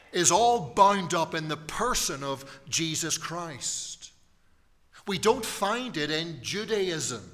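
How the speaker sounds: rising preaching. Acted. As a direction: preach it with building fervor. Preaching builds to climax.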